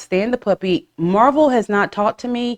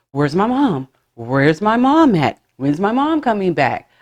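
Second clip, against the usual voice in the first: whiny puppy. Acted. Owner voicing the puppy missing its mom, mock whiny. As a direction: lightly whine it like a needy baby. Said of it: "whiny when I'm not around".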